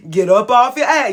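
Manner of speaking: a firm, emphatic push to get moving. Shown as a demonstration. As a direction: hit it harder the second time. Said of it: "You see how I did it?".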